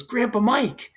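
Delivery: lightly voiced son pressing his point; insistent correction. Son answers in the same voice.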